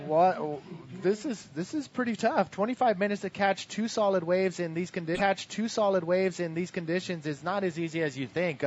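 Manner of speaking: quoting surfers. Retold or imitated. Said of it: "a couple of 'em said".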